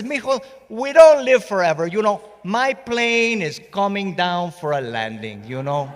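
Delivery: put-on high, lilting old father voice; old father's voice. Father telling his son about death, lilting and high. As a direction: play the wise old dad, gently joking. Voicing his elderly dad's wisdom.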